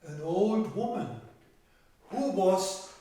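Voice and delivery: measured fairy-tale narration with stretched key words; storytelling to children. Acted. Telling children of thirteen brothers and an old woman, storytelling. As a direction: tell it to young listeners, leaning on the pictures.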